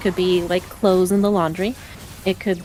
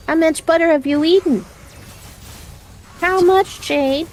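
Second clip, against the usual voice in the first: high, teasing scold at the dog; talking down to a guilty pet; mock scolding the dog; 7 semitones higher than usual. Real, not acted. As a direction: scold the little thief playfully, pitched up. Scolding the dog that ate butter.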